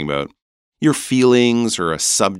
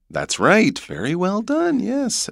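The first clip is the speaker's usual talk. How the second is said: normal talking voice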